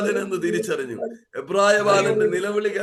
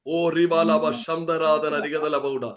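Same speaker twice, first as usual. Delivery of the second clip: lower, fading murmured tongues; speaking in tongues; 4 semitones lower, much slower than usual. Real, not acted. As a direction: slip into tongues and trail off. Tongues mid-sermon.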